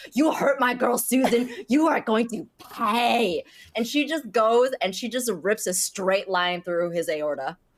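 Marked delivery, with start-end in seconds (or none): 0.1-3.4 put-on drunken, furious, raging voice. Voicing a character stabbing an enemy in the neck: drunken vengeful rage. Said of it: "just full vengeance, just being like".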